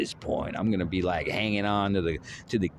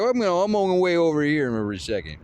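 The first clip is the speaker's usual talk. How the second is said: casual aside; 6 semitones higher, 3 dB louder, faster than usual. Pretend. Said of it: "We're like".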